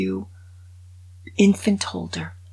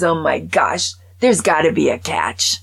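alarmed; 5 dB louder than usual. Acted. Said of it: "Mel goes".

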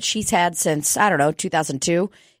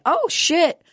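startled realization, rushing on; mock surprise; surprised. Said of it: "And I was like".

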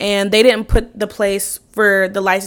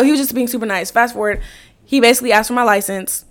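ordinary talk, nothing marked

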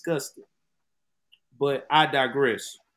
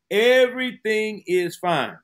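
mock reassurance; 5 semitones higher, 4 dB louder than usual. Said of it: "her people had promised".

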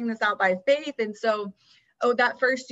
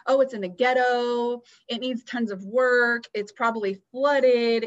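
negative grumbling thoughts; 3 semitones higher, 5 dB louder than usual. Retold or imitated. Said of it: "really all of these negative thoughts".

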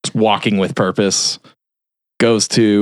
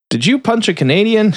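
imitating accusing cop; 12 semitones higher than usual. Retold cop questioning a suspect.

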